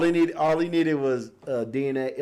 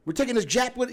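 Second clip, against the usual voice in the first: higher, barking soldier quote; gruff soldier voice; 9 semitones higher than usual. Retold or imitated. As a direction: bark it like a rough soldier. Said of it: "somebody be like".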